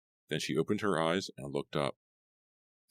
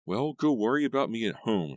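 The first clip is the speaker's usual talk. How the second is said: higher, louder snap; angry; 7 semitones higher, 5 dB louder than usual. A narrator's reading. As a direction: send him off, annoyed. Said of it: "she said angrily".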